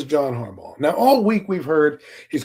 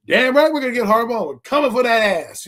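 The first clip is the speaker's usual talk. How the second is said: louder and higher, crowing the comeback; cocky loud boast; 4 semitones higher, 4 dB louder than usual. Retold or imitated. Fan taunting an Eagles neighbor with a cocky loud boast. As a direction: gloat it like you own the division. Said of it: "I didn't say it like that".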